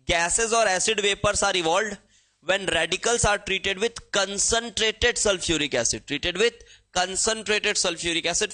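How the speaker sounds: reads the English line word by word, very slowly; dictating from the book, unhurried; slow textbook reading. Shown as a demonstration. (किताब से धीरे-धीरे पढ़ना)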